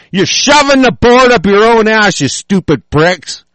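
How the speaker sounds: high-pitched, exasperated yell; angry yelling. Real, not acted. Speaker scolds voters for backing both parties, angry yelling. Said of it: "Damn it, I'm yelling".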